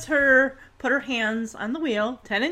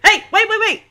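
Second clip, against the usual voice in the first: raised, louder call to halt; imitated urgent alarm; 7 semitones higher, 4 dB louder, faster than usual. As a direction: call out like a startled dad. Acting dad's sudden alarm.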